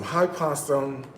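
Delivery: lightly voiced TikTok influencer; a hint of a chirpy influencer greeting; imitating TikTok guy. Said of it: "That's how he talks".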